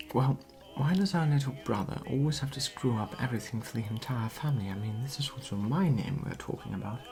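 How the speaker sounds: fast, exasperated gossiping aside; breathless gossip. Retold or imitated. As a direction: rush it out like indignant gossip. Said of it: "I said to Kate".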